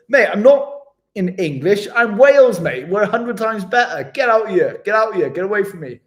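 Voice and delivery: loud, high, jokey rant at whoever calls him English; mock Welsh banter shout. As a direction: bellow it like a proud Welshman taking the mick. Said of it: "I go".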